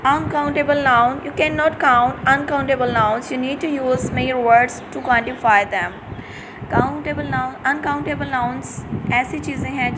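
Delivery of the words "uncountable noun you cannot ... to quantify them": slow, deliberate reading of the definition; slow dictation. Shown as a demonstration. Teacher reading a definition to her class, slow and deliberate. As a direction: read it out word by word for students to copy.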